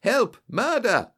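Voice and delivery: high, loud cry for help, read as a scream. A narrator's reading. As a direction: shout for help as if attacked. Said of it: "a sudden scream of".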